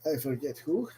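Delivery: bad, hammy Irish accent. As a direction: lay on a cheesy Irish brogue. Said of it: "doing a really bad Irish accent today".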